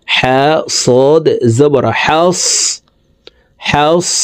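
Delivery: "হাস" closed on a long hissed s, no bounce; no push. Shown as a demonstration. Teacher showing sad read without a push, smooth s. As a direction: spell slowly and hold the final s of "হাস". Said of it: "ধাক্কা ছাড়া পড়তে হবে".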